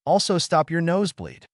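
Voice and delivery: a hint of insistent protest in a character's line; lightly acted correction of a misunderstanding; lightly voiced Naruto, insisting. Naruto's dialogue in story.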